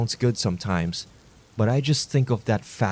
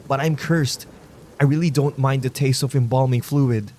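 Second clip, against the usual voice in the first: pleading fat man; 4 semitones higher than usual. Acted.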